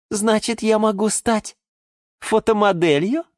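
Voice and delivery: high-pitched coy question; sly. A narrator's reading. Geranium angles to become a model, sly. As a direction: angle slyly for a yes. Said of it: "хитро прищурилась герань Антонина".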